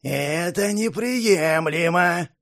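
slow, stern guard refusal; a hint of menace. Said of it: "грозно ответил второй страж".

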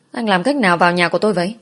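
startled question. Acted. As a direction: blurt it out in surprise. Startled girl confronts intruder.

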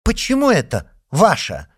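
high, loud ringing question. A narrator's reading. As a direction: ring out the question. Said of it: "звонко спросила мама Пежо".

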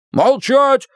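barking gym coach. A narrator's reading. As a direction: snap it like a drill coach. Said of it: "рявкнул тренер".

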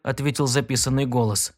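usual speaking voice

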